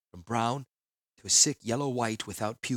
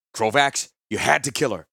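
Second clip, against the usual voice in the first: urgent call; 7 dB louder than usual. Acted. Gerard urges Krovax at bridge.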